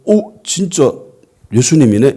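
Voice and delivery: acted surprise, jumping up high on the first words; amazed realisation. Disciples seeing risen Jesus in person, in mildly acted amazement. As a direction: imitate someone startled into believing.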